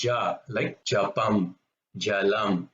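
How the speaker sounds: "Japam", "Jalam" with a voiced unaspirated J; hard J in "Ja", no puff of air; no emphasis, harder. Shown as a demonstration. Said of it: "it's a harder sound".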